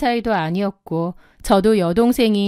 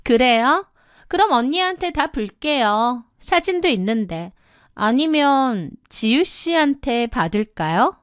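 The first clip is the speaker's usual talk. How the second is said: veiled threat in sister's voice; coy blackmail; 3 semitones higher than usual. Acted. Sister-in-law threatening to tell his wife, coyly menacing. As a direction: threaten him with mock politeness.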